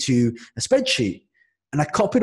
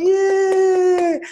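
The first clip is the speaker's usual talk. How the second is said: mock yay; 4 dB louder than usual. Mock cheer while terrified.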